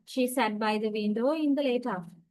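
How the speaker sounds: "She sat by the window in the late afternoon" said as a statement, falling at the end; falling intonation. Shown as a demonstration. Teacher demonstrating a statement's tone group, falling intonation. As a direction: let "afternoon" fall to close the statement. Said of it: "using the falling intonation".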